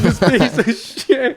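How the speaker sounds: high, slow comic seething; exaggerated exasperation with a laugh; mock fuming. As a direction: curse him slowly, breaking into a laugh.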